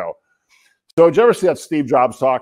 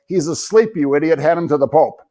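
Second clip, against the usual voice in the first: mock indignant outburst, pitched up; imitated loud voice; 4 semitones higher than usual. Mother scolding the man holding her sleeping kid, mock loud voice. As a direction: raise the pitch for a retold scolding. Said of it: "in a real loud voice".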